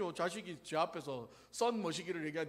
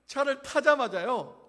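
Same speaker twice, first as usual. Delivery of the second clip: ordinary talk, nothing marked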